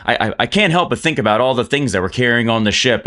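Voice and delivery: high, flustered apology; high, flustered dwarf caught off guard; taken aback. Acted. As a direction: blurt it out, flustered. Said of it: "taken aback".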